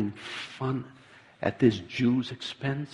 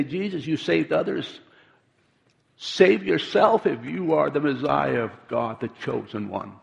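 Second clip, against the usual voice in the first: mocking; 3 semitones higher than usual. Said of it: "This mocking".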